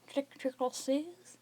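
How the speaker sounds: slow, careful tricoteuses in French; careful French word. A narrator's reading. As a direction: sound out tricoteuses slowly.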